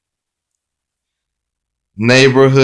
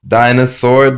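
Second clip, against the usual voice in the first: called-out keyword; 3 semitones higher, 5 dB louder than usual. Shown as a demonstration. Teacher showing the phonics card, Dinosaur called out loud. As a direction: announce the card word Dinosaur loudly. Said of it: "phonics card keyword drill".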